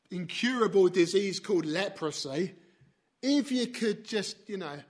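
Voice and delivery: mock casual. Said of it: "He didn't say to Jesus".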